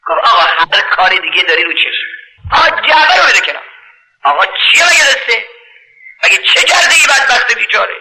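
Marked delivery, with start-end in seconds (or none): 2.5-7.9 high desperate questions; anguished plea. Retold or imitated. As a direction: beg him to let it go. Butcher begs, high pitch.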